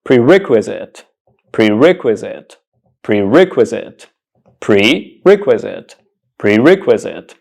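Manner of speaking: prerequisite said pree-REK-wi-zit; model pronunciation. Shown as a demonstration. Teacher shows how this word is pronounced, prerequisite as pree-REK-wi-zit. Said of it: "This word is pronounced".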